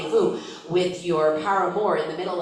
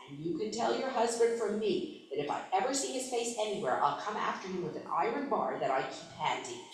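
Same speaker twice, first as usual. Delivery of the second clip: lowered voice; 3 semitones higher, 8 dB quieter than usual. Acted. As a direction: lean in and drop the voice. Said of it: "lowered his voice".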